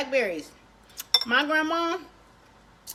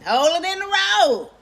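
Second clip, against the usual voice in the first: louder grandma warning; grandma's warning; 5 semitones higher, 4 dB louder than usual. Retold or imitated. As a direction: warn the driver. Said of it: "she knew instantly".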